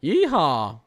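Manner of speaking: high, loud cowboy yeehaw; playful whoop. Pretend. Streamer cheering for Texas snow, playful whoop. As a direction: let out a mock-cowboy cheer.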